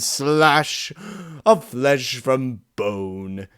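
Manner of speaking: a monster hungry for blood, goading; demanding inner beast. Acted. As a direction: press him harder and harder.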